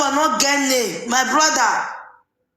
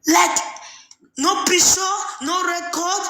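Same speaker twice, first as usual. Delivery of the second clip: exclaiming; 4 semitones higher than usual. Real, not acted. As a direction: shout it at him in mock outrage. Exclaiming no evidence, shouting.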